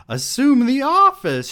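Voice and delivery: very high, loud shriek; shrieked order in a high character voice; screamed command. A narrator's reading. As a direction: scream it at him. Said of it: "she screamed at him".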